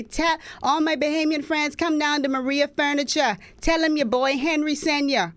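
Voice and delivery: high, slow mock of an ad man's clumsy Bahamian accent; playful imitation of a terrible Bahamian accent in a TV spot; bad Bahamian accent. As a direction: sell it like a cheesy TV furniture ad in a poor Bahamian accent. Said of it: "the worst Bahamian accent ever".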